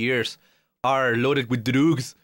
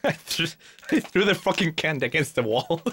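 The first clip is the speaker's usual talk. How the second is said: laughing while talking. Real, not acted. Laughing at own candy throw.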